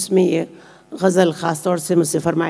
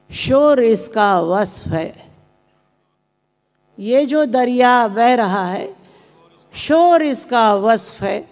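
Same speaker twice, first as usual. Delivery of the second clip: measured ghazal recitation with pauses between phrases; poetry recitation; 2 semitones higher, slower than usual. Acted. Poet reciting her ghazal to a mushaira audience, measured recitation. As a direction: recite each line deliberately, letting the refrain land.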